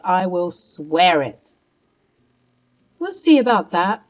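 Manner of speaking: lightly voiced snob sure she's right; haughty mother-in-law. Martha threatening Mia with gossip, smug and dismissive.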